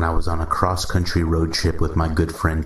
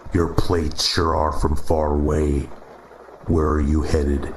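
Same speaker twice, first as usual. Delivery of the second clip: Midwestern drawl; 2 semitones lower than usual. Acted. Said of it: "he said in a Midwestern drawl".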